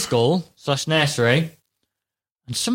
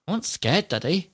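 higher, mock child's voice; little daughter; 3 semitones higher, 5 dB quieter than usual. Little girl protesting to her dad, imitated in a higher voice. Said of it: "And then she went".

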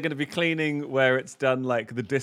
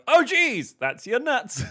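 shocked gasp; 11 semitones higher, 3 dB louder, slower than usual. Pretend. Shocked intruder walks in.

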